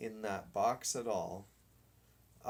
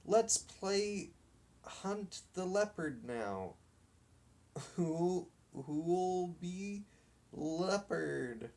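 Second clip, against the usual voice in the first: higher playground call with a laugh; eager boy; 7 semitones higher, slower than usual. Acted. Captain calls the boys to a new game, eager and high. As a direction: pitch the game to the gang.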